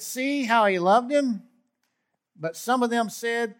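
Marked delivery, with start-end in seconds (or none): 0.0-1.5 moved exclamation. Acted. Jews remarking on Jesus' love.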